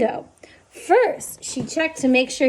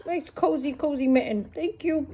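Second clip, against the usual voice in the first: content owl; 6 dB quieter than usual. Acted. Owl settling into mitten.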